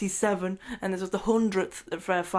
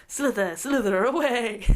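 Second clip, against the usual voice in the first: a slightly raised, sly villain hiss; villain impression; 4 semitones higher than usual. Retelling the movie villain's slither, lightly voiced. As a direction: mimic the villain's sneaky slither line. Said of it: "I like the way he does that".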